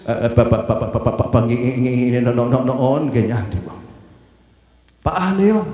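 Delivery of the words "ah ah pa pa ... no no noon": lightly voiced stammer on each syllable; stuttering Moses. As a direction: stutter through the words. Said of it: "sabi siguro ni Moses".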